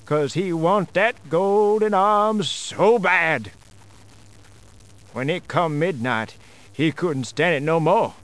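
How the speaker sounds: folksy ghost-story narration; ghost story telling. A narrator's reading. Storyteller spinning a ghost tale for listeners, folksy.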